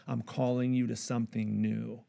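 God whispering close into a listener's ear; soft whisper. Retold or imitated. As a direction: breathe it into their ear like God. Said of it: "whispering in our ear".

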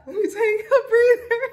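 high, loud, half laughing and half crying; choking up with a laugh as she tries to hold it together; laughing through tears. Real, not acted. Telling her viewers she needs a breather, crying and laughing. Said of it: "I don't wanna cry".

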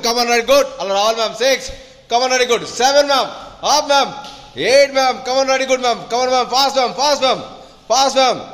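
high, quick calls to speed up; urgent coaching calls. Real, not acted. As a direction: hurry the class along. Coach pushing for faster reps.

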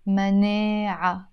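manee-a ending on an open vowel; final t silent in مناعة. Shown as a demonstration. Teacher explains te marbuta, t silent in مناعة. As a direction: leave the ending of manaa without t. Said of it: "which is usually silent".

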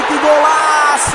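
long, loud, high goal scream; explosive goal commentary. Acted. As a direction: stretch out the goal call like a TV commentator.

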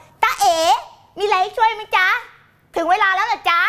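high, sing-song sweet offer of help; cutesy peekaboo voice. Shown as a demonstration. Coach models greeting a returning commenter, cutesy high voice. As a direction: put on a high, mock-sweet helper voice. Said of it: "ทำเสียงแบบนี้ด้วย".

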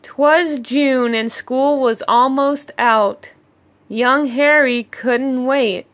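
put-on lilting rhyme for children; storybook reading. A narrator's reading. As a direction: read it like a bedtime picture book. Reading rhyming story aloud.

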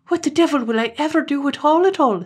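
a frightened man wailing at his fate; panicked cry. Acted. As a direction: Terence panicking over his plucked father. Terence panics over his father.

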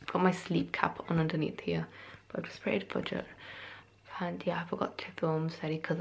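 soft early-morning whisper. Real, not acted. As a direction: whisper so nobody wakes. Early morning, family asleep.

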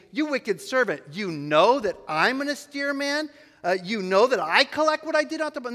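mock him by repeating his accusation; mocking retort. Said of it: "kind of mocking him".

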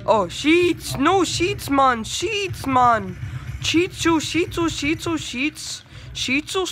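high, loud, exasperated yelps of defeat; frustrated yelling. Real, not acted. Gamer yelling after dying in the match, high and loud. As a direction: cry out over and over at being killed.

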